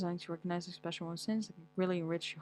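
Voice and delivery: normal talking voice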